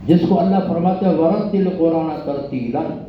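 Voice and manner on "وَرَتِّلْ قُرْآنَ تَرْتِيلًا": Quran recitation. Acted. Quotes the Quranic verse.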